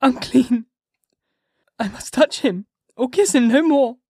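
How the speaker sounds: a wife crying out that she is now her husband's enemy; anguished sobbing cry. A narrator's reading. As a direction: wail in self-loathing. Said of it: "amidst choking sobs".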